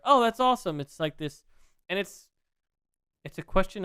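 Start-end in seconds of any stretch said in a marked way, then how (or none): 0.0-0.8 much higher, louder excited gasp; high-pitched excited fan reaction; awed delight. Retold or imitated. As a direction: gush like a fan. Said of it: "moments where you're like".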